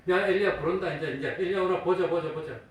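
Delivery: loud, high jeering; mocking. Onlookers call for Elijah to come, loudly mocking. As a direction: taunt like a heckler in a crowd. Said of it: "조롱하는 말입니다".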